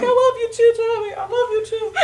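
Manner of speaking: high, loud mock affection; squealed, over-the-top fondness; gushing shouted reply. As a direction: shout it back with a laugh. Acts out shouting affection back.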